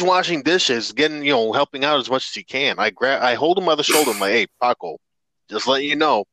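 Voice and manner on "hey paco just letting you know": holding back a laugh; stifled giggles. Retold or imitated. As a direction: try not to crack up while talking. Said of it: "I'm trying not to laugh".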